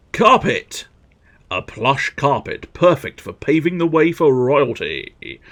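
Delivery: drawn-out item names, then grand description; hammed-up product presenter; showy catalogue read. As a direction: announce each item with relish. Reads item descriptions aloud.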